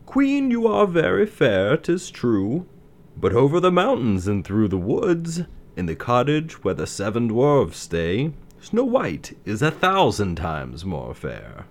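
an enchanted mirror intoning; shimmering echoing mirror voice. Acted. Magic mirror answers.

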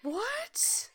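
high, voiceless gasp of "what?"; shocked whisper. Real, not acted. Co-host reacts to missing first episode, shocked whisper. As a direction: whisper it in disbelief.

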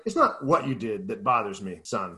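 put-on lightly done Russian accent, low and quiet; a hint of a Russian mob boss, drifting Irish; mock Russian accent. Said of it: "my Russian became an Irish accent".

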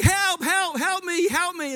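hammed-up toddler yelling for help; imitating a screaming child. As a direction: squeal it like a wriggling toddler. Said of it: "she was screaming and trying to wriggle".

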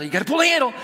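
high, urgent yelled instruction; re-enacted pained shout. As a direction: blurt the order through pain. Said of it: "I'm shouting, screaming, I'm in misery".

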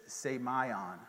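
semaion said slowly as say-my-on; Greek pronunciation. Shown as a demonstration. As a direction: sound out semaion as a Greek word, say-my-on. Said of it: "the way you say that Greek word".

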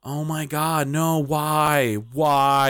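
high, drawn-out retold plea; exasperated wail, played for the story; dismayed pleading. Customer protesting the canceled card, dismayed.

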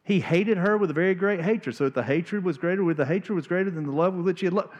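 milk "hated" like a country lyric; preacher rereading the verse as a mock country song; mock-dramatic reread. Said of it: "the greatest country song ever written".

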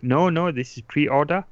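lightly put-on French accent, weak; half-hearted French accent impression; bad French accent. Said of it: "bad French accent".

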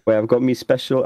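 half-hearted stab at Yorkshire; attempted Yorkshire accent. Player trying out the ratcatcher's voice, shaky Yorkshire accent. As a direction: try a Yorkshire accent and not quite land it. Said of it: "I can't do a Yorkshire accent".

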